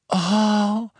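very high, loud, drawn-out squeal; delighted screech. A narrator's reading. Friend hearing of a baby, screeching with joy. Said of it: "kreischte Hermine".

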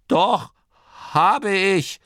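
put-on high, loud, defiant old man; insistent. A narrator's reading. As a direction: insist on it loudly. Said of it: "beharrte Torrid". (beharrlich, hoch und laut)

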